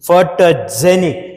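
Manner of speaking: ఫోటోజెనిక్ very slow, weight on జె; stress on జె. Shown as a demonstration. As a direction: stretch ఫోటోజెనిక్ leaning on జె. (జె మీద ఒత్తిడితో నెమ్మదిగా ఫోటోజెనిక్)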